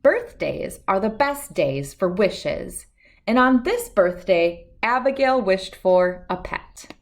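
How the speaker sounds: gentle storybook narration, unhurried; reading to children. A narrator's reading. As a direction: read it like bedtime story time. Reading a picture book aloud.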